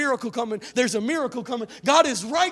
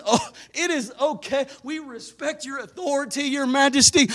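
soft mock-polite taunting; sarcastic; 5 dB quieter than usual. Hebrew boys taunting the king's fire, softly sarcastic. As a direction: needle the king with sweet fake respect. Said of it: "talked with sarcasm".

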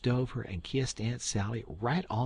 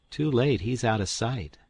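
put-on higher, a bit louder young Tom; Tom, quick remark; 3 semitones higher, 6 dB louder than usual. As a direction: toss it off over the shoulder. Tom glancing back.

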